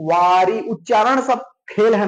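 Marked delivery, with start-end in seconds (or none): 0.1-0.6 वारी with both long vowels drawn out; sounded-out word. Shown as a demonstration. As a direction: say वारी stretched, so the final ई is heard. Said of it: "वारी बोल के देखो".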